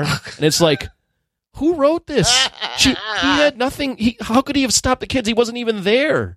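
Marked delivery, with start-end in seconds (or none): 1.6-6.4 high, laughing disbelief; incredulous rant. Real, not acted. Friend ranting about the movie in high disbelief. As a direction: rant at the absurd scene.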